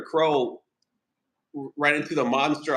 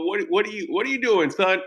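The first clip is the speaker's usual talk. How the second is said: mock father voice; 5 semitones higher than usual. Acting father and son dialogue.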